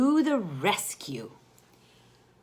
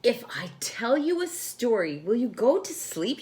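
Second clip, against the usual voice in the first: asking sister; 4 semitones higher, 3 dB louder than usual. Acted. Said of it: "she asked".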